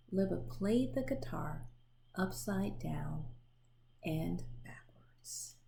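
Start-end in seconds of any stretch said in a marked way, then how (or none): 2.2-5.6 slow, fading to a whisper on backwards; hushed refrain. A narrator's reading. Narrator hushing the refrain to close the page. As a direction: let the refrain sink to a whisper.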